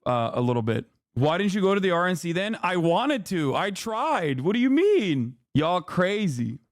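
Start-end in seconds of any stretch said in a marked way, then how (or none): 2.6-6.6 indignant, pitch-swooping defence; exasperated protest. Real, not acted. Exasperated reply to a chat question.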